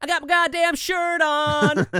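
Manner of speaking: put-on high, slow little-kid voice, dead serious; dad mimicking his son parroting mom's swear; kid's deadpan reply. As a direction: repeat it back like a proud small boy. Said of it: "Just dead".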